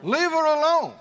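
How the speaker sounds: answering the complainers with a loud firm rebuke. Acted. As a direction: snap it back as a rebuke. Congregation answers Jesus's rebuke.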